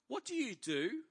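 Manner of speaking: imitated girl with high, rising question; random girl. Random girl stopping a stranger at the snack bar, high-pitched imitation. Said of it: "this random girl taps me".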